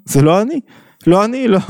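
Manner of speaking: imitating someone brushing off blame; defensive denial. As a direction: push the blame away, pitched high. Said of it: "מה אתה אומר?".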